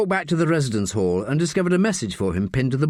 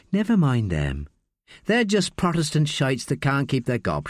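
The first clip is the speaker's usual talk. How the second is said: cool, controlled contempt; calmly fierce; 3 semitones higher than usual. Acted. Rosaline dismissing the jeering students, calmly fierce. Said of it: "She was calmly fierce".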